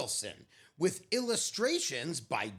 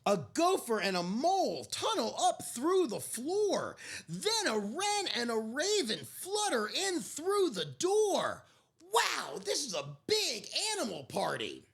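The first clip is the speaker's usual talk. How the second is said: gentle picture-book narrator; story narration. A narrator's reading. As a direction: read it like a bedtime story. Picture book read aloud.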